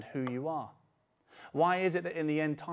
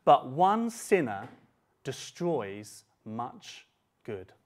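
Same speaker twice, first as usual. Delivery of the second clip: slow emphatic reading; 3 semitones lower, much slower than usual. Shown as a demonstration. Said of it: "very interesting line".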